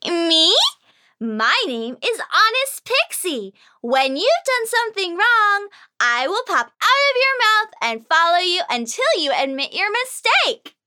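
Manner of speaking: high, playful pixie voice, pleased with herself; bright-eyed sprite introducing herself; cheeky pixie. Acted. Pixie introducing herself to Whiskers, high playful voice.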